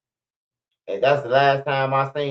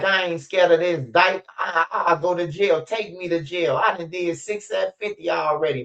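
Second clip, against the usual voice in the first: pitched-up defiant mama; daring them to arrest her, higher; 4 semitones higher than usual. Retold or imitated. Mama ready to go to jail, mock defiant and raised. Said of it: "She was like".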